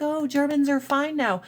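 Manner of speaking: high, airy mock of Americans. Mimicking Americans excusing Germany, high mocking voice. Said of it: "And we're like".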